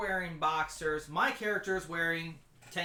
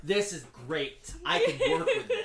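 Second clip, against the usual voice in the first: excited. Retold or imitated. Retold inner reaction.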